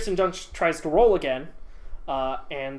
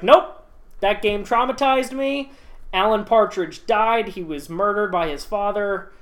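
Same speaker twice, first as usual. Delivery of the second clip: firm refusal; 3 semitones higher than usual. Retold or imitated. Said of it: "she's just like".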